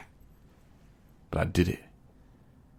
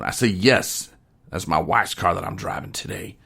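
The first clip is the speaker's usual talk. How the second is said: lightly put-on country storytelling accent; hillbilly storyteller. Telling his wing-night story to the listener, mild hillbilly accent. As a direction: spin the yarn with a hint of hillbilly drama. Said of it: "angry hillbilly".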